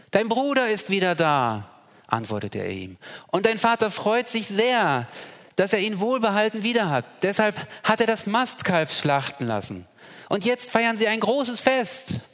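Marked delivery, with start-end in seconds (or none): 0.1-1.7 high, loud eager servant; higher excited servant voice. Acted. Servant's reply voiced in reading. 3.3-12.2 high, loud eager servant; higher excited servant voice. Acted. Servant's reply voiced in reading.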